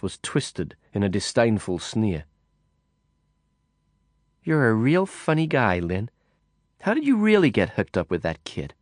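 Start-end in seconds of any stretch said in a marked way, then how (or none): 4.4-8.7 a hint of a mocking woman, a touch higher; mocking woman, lightly voiced. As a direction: tease him with a sneer. Woman teases narrator.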